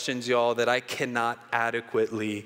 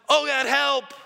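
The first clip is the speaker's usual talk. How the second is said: high, loud desperate cry; cry for help; 11 semitones higher, 5 dB louder than usual. Acted. Atheist under the bear's paw, loud panicked cry. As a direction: shout it up to the sky in panic. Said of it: "the atheist cried aloud".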